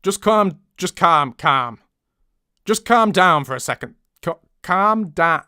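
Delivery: practising a northern English accent; northern voice rehearsal. Shown as a demonstration. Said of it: "but in a northern accent".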